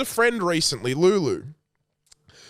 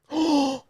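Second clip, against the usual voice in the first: sharp mock gasp; imitated gasp; 9 semitones higher than usual. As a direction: gasp in mimicked outrage. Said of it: "Like that".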